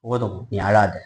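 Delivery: low, soft reassurance; quietly calm someone who is weeping; hushed, low comfort; gentle consoling. Acted. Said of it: "ஆனா கர்த்தர் சொல்றாரு".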